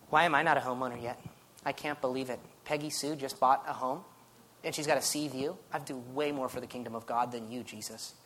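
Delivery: lightly acted low complaint; a touch of jealous griping to God; envious grumbling. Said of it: "things like jealousy and envy".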